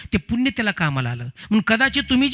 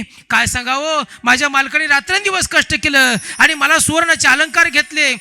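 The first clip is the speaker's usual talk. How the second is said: tearful lament; 6 semitones higher, 5 dB louder than usual. Acted. Wife wails her tale to the women, tearful and loud. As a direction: wail out the story through tears. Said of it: "रडूच सांगू लागली".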